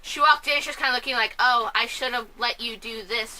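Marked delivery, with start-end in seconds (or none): 1.4-3.4 unbothered, emotionless mock reaction; imitating an underwhelmed reaction; no emotion. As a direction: deliver it with no emotion at all. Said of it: "like, no emotion".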